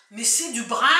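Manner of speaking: Picard accent. Real, not acted. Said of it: "mais je suis picarde".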